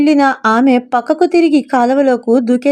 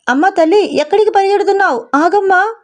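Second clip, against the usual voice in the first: put-on higher, urgent call after a runaway girl; 6 semitones higher than usual. Rajendra and Sharada calling after Mouni as she runs, higher urgent cry. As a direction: call after her, begging her to stop. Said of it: "అంటూ అరుస్తున్నారు".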